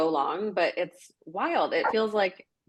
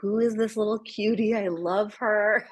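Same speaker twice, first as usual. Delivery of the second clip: cute dog voice; 4 semitones higher than usual. Retold or imitated.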